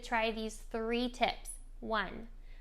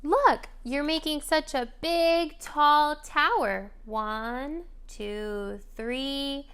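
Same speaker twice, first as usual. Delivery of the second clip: excited parentese; 3 semitones higher, 6 dB louder, much slower than usual. Shown as a demonstration. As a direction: cheer the toddler's tower along. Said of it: "you could comment on what they're doing".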